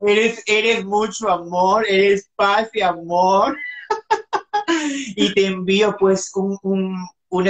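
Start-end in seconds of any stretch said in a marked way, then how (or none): 0.0-3.6 slow, sincere praise; tender and slow. Real, not acted. Host thanking guest, slow and tender. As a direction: linger on each kind word.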